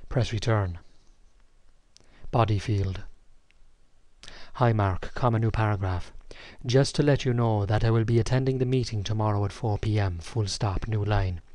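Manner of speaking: deliberate dictation, saying the punctuation aloud; slow dictation with punctuation. Shown as a demonstration. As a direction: dictate slowly and clearly to software. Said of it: "here's the first command".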